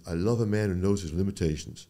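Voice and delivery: imitated Southern accent; a lightly put-on Southern voice. Attending surgeon answering the honest student, light Southern accent. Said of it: "that was my best Southern accent".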